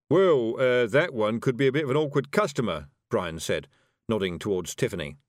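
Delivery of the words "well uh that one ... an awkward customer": hesitant, louder wizard voice; uneasy hedging. Acted. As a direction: stall nervously before the boss. Nervous wizard hedges to his boss.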